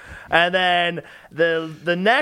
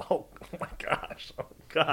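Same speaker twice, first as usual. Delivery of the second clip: spit take; 2 semitones lower, 11 dB quieter than usual. Real, not acted. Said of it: "You spit all over that mic".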